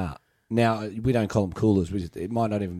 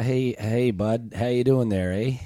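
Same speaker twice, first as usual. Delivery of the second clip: put-on Canadian accent; slower than usual. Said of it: "What's the most Canadian accent you can do?".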